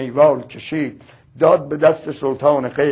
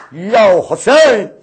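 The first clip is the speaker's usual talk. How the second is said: a drawn-out, louder lament call; crying out Husayn; 4 semitones higher, 5 dB louder, slower than usual. Acted. Preacher crying out to Husayn before the mourners, drawn-out wail. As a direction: call his name slowly, grieving.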